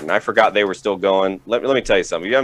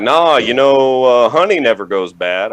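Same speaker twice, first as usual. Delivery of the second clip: dad voice; 3 semitones higher, 6 dB louder than usual. Retold or imitated. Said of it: "he's like".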